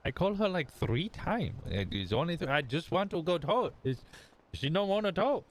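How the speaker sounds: pleading in a high fake Hispanic accent. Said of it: "fully committed to the Hispanic bit".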